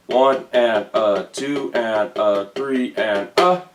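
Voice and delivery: slow counting along. Shown as a demonstration. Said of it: "you're gonna count it like this".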